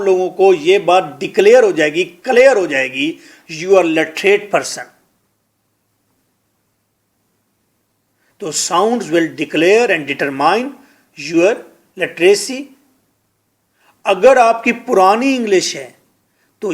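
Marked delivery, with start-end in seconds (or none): 3.6-12.6 slow emphatic. Shown as a demonstration.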